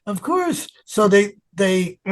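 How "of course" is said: high, drawn-out, softer yes; eager acceptance. Retold or imitated. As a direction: re-enact giddy acceptance, slow and high. Accepting offer from his idol.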